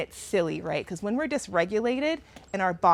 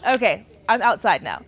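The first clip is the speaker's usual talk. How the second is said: louder outside voice; 6 dB louder than usual. Real, not acted. Teacher speaking up so the class can hear, louder. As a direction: project it to the back row. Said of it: "I gotta get my outside voice on".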